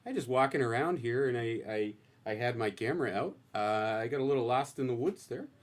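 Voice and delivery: folksy North Dakota accent, lightly done. Shown as a demonstration. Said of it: "You wanna give us a little taste?".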